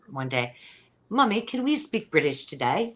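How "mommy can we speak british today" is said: put-on child asking. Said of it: "Demi said to me".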